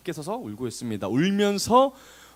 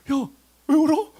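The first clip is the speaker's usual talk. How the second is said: knowing bemusement; 11 semitones higher, 6 dB louder, slower than usual. Acted. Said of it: "천사는 다 알고 있는 거예요".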